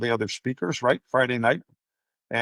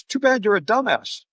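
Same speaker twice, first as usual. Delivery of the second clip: mock insult; 9 semitones higher, 4 dB louder than usual. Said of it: "and he goes".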